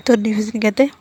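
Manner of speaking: ordinary delivery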